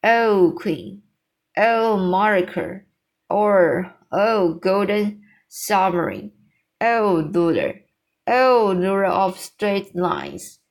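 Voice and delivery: mildly exclaimed, each title set apart; a touch of grand acclaim; exclaimed homage. Acted. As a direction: hail her with each "Oh", letting the title fall away. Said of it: "cried the B F G".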